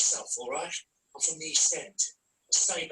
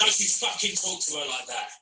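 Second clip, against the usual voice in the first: a hot, louder snarl at a stranger; angry confrontation; 5 dB louder than usual. Acted. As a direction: square up and warn him off. Boyfriend confronts man on train.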